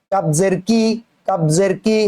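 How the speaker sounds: "কি" as a k just forward of the tongue root. Shown as a demonstration. Teacher contrasts kaf with qaf, k slightly forward. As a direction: move the "ক" of "কাবজের" a little forward from qaf. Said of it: "সেখান থেকে কাপ উচ্চারণ হয়".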